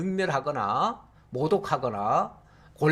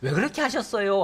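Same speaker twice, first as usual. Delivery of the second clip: trembling plea; 3 semitones higher than usual. Shown as a demonstration. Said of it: "벌벌 떨면서".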